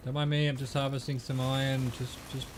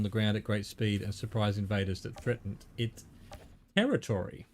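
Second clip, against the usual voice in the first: reading aloud. Acted. Reads in-game bestiary entry.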